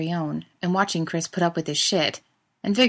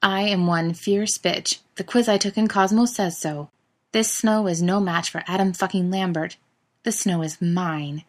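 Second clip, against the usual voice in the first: grim. Acted. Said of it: "says grimly".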